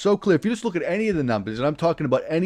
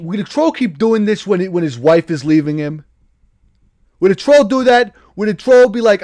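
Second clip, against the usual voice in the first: louder and higher, shouting down the chat; indignant shouting; 5 semitones higher, 6 dB louder than usual. Acted. Streamer yells at chat calling him a troll, indignant shouting. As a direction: yell it like you're truly offended.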